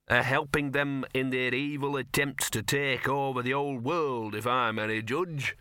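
lightly voiced know-all dog; talking dog, opinionated. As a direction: carry on muttered theories as a little dog.

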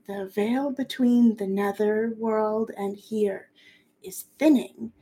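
slow, measured recital; solemn slow reading; reading an incantation. Acted. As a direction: intone the ancient text. GM reads incantation.

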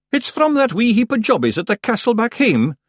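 high, loud little Scots warrior, businesslike; feisty Scottish clansman. A narrator's reading. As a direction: rattle off news as a tiny Scottish chief. Rob Anybody voiced in narration.

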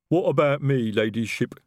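a big troll rumbles a question; rumbling troll. A narrator's reading. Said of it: "detritus rumbled".

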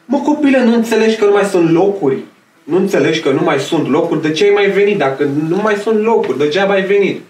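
imitating the cleaning lady. Cleaning lady scolding the boy who came back, high mock nag.

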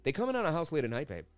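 swaggering Boston tough guy who can do anything; Mark Wahlberg impression. Streamer does his Marky bit for live chat, cocky Boston accent. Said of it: "Always gotta do a Marky impression".

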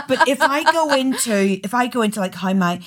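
broad Northern Irish granny accent; lightly hammed-up Northern Irish accent. Shown as a demonstration. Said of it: "how my granny would have spoken like that there".

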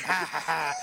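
imitated character chuckle; mock giggle. Podcaster mimics the movie god's giggling, mock chuckle. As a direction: put on the film god's giggle. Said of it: "He does a lot of giggling".

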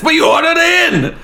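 very high, exclaimed; high-pitched exclaim. Retold or imitated. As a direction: squeal the line. Quote of Sandy.

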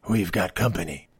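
a hint of low, hushed movie hero; quietly flag the bad guys behind you; movie hero spotting pursuers. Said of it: "they say something like".

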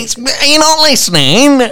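laughing mock outrage, high. Real, not acted. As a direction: shout it through laughter.

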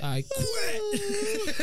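very high, shouted I quit. Retold or imitated. Quitting the job in front of the boss, shouted high. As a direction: yell it as you walk out.

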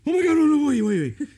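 put-on very high, loud kid squeal; frantic hammed-up begging, words tumbling out; imitated panicked pleading. Kid stalling dad's suppository, mock panicked shrieking.

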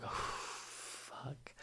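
whispered curse after blowing out air; dread under breath. Retold or imitated. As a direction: exhale hard, then whisper the swear. Dread before walking on stage.

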